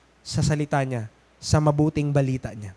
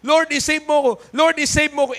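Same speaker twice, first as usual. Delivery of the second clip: retold earnest plea; 8 semitones higher, 3 dB louder than usual. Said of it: "Sabi ko sa Panginoon".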